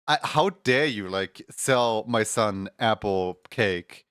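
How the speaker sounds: hammed-up angry customer; mock outrage. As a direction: play an offended parent. Angry customer confronting baker.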